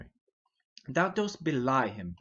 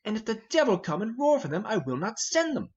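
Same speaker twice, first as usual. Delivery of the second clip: higher and louder, hot defiance; defiant outburst; 6 semitones higher, 3 dB louder than usual. Acted. Hotspur raging after the king leaves, defiant and loud. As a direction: roar your refusal after him.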